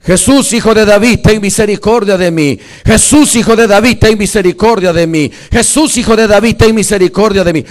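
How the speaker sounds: loud, repeated imploring call; high-launched, full-voiced imitation of crying out; reenacted cry. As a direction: shout the plea over and over as the blind man. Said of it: "cuando decía".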